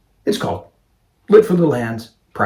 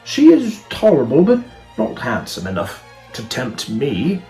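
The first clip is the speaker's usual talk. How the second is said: haughty suitor; 3 semitones higher, 7 dB louder than usual. Acted. Proud man snubs a woman at the ball, haughty. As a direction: play a proud gentleman passing judgement.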